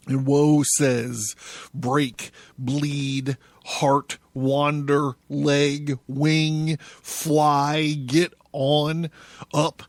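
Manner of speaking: intense, theatrical recital of a prophetic text; solemn, swelling literary performance; dramatic reading. A narrator's reading. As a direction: declaim it like a poet possessed.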